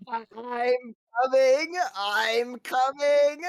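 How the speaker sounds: slow, drawn-out robotic Dalek cry. Retold or imitated. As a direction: stretch it like a Dalek. Imitating a Dalek.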